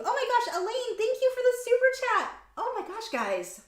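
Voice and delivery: very high squeal of surprise; overwhelmed gratitude. Real, not acted. Streamer surprised by another super chat, overwhelmed. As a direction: burst into high-pitched, touched thanks. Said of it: "not crying".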